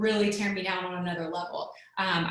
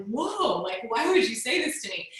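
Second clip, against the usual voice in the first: shocked disbelief; 3 semitones higher than usual. Retold or imitated. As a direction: recoil as if slapped by the words. Shocked reaction to hateful texts.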